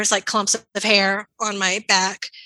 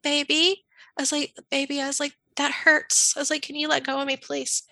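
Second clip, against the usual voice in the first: soft, coaxing plea, a touch higher and quieter; soothing plea; 4 semitones higher, 3 dB quieter than usual. Retold or imitated. Pinned in the truck, coaxing her husband softly. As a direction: gently soothe him so he lets go. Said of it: "like, soothingly".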